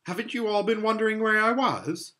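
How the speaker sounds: high, puzzled amazement; Lucy amazed that nobody missed her. A narrator's reading. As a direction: ask in wonder. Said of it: "said Lucy in amazement".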